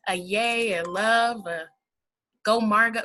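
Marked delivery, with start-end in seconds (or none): 2.4-3.0 bright rallying cheer of her name; cheerful cheer. Shown as a demonstration. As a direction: call it out like a cheer. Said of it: "not go Margot".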